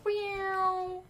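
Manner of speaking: one long high wheeee sound; imitated noise. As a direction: hold a thin high tone, quietly.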